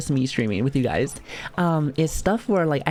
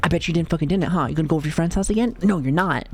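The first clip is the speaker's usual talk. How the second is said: angry father; faster than usual. Retold or imitated. Voicing angry father in story.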